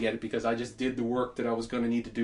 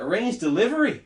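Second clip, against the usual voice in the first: pitched-up disbelieving question; rising, stunned echo; incredulous echo; 8 semitones higher, 3 dB louder than usual. Retold or imitated. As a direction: repeat it in disbelief.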